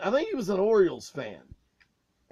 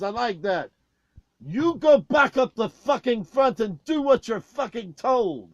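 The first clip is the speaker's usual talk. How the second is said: tour manager scolding; 5 dB louder than usual. Retold or imitated. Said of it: "And Oscar goes".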